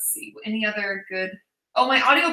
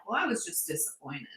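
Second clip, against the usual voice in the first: understated disappointment; 4 semitones lower, 11 dB quieter than usual. Retold or imitated. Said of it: "Sean's really good at just being like".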